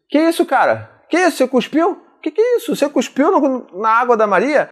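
high-pitched indignant scolding; incredulous, accusing questions in a high voice; accusing intonation. Retold or imitated. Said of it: "a entonação que eu falei".

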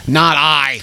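a touch of a walrus; lightly voiced walrus, firm; mock walrus. Host repeating the walrus line, lightly voiced. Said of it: "says the walrus".

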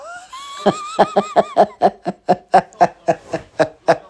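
high-pitched, drawn-out laughing fit; long laugh. Real, not acted. Comedian cracks up at his own punchline, long high laugh. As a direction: laugh helplessly at your own joke.

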